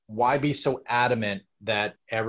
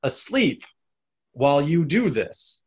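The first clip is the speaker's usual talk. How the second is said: laughing while talking; 4 semitones higher, 5 dB louder than usual. Real, not acted. Laughing at friend's joke.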